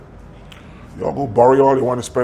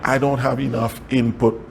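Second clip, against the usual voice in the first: quiet; 4 semitones lower, 6 dB quieter, slower than usual. Pretend. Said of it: "Sometimes you just have to say".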